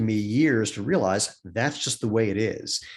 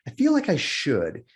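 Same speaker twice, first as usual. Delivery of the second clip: slow, higher-pitched searching reply; unsure mother; 4 semitones higher, slower than usual. Retold or imitated. Mother trying to recognize her daughter, slow and uncertain. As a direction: draw it out, feeling for the answer.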